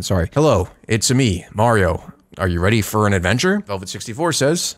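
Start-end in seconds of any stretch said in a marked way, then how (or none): 0.3-3.6 a lazy attempt at movie Mario; Chris Pratt impression. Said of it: "my best Chris Pratt impression".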